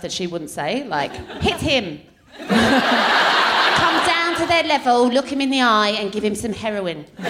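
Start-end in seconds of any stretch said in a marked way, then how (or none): 1.4-2.0 lightly imitated British nanny accent; mock nanny's British accent giving an order; a touch of British TV nanny; Super Nanny. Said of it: "I know how to do her accent". 2.5-7.1 put-on slow, instructive British nanny accent; drawn-out mock nanny accent; Super Nanny. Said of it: "I know how to do her accent".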